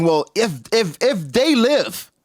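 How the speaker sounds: high, loud, smug warning; cold villain reveal. Retold or imitated. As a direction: sneer it out above his own voice. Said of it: "he's saying".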